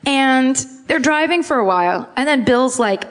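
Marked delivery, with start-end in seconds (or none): none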